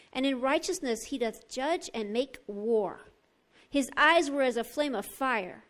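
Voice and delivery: measured, solemn Bible reading; scripture reading. Acted. Preacher reading Revelation nineteen to the congregation, solemn proclamation. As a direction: proclaim the verses with weighted key words.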